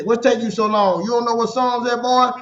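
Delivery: put-on a touch of an elder chiding a boy; impatient grandfather. Grandfather hurrying grandson to find the Psalm, mildly impatient imitation. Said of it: "and he would say".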